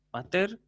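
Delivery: "pater" as pa-TER, slow with a rising end; stress on final syllable. Shown as a demonstration. Teacher repeating the drill, final stress on "pater". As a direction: raise the last syllable of "pater". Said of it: "con acento agudo al final".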